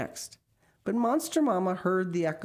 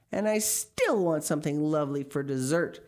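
thundered; 4 dB louder than usual. Acted. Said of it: "she thundered".

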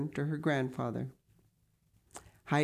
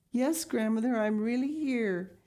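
put-on higher child's voice, gently reassuring; 7 semitones higher than usual. A narrator's reading. Heidi answers her weeping grandmother, reassuring. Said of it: "answered Heidi in a reassuring voice".

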